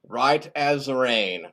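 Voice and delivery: very slow, drawn-out repeat; self-satisfied echo. Acted. Bob repeats that he feels fine, slow and self-satisfied. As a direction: savour each word slowly.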